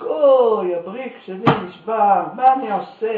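put-on old rabbi crying out that his jug broke; rabbi shouting in dismay. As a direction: wail over the broken jug, loud. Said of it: "התחיל הרב לצעוק".

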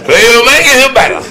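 very high, strained voice; hammed-up falsetto report; excited onlooker. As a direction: squawk it out excitedly. Continues acted high voice.

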